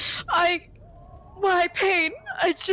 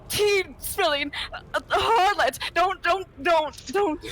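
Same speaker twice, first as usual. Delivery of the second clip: fake crying; 2 semitones higher than usual. Begging in fake tears.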